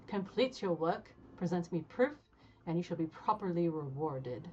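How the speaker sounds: lightly voiced stern battle reeve, grand and formal; a hint of a noble warrior addressing recruits; dramatic quest giver. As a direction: read it like a solemn commander giving orders. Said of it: "I wanna be dramatic about it".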